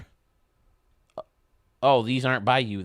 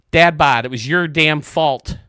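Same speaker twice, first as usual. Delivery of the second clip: mock blame; 4 semitones higher, 8 dB louder than usual. Jokingly blaming a streamer.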